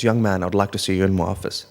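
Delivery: lightly voiced headmaster; principal's voice. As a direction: summon them with a touch of school-principal authority. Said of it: "he has that principal's voice down pat".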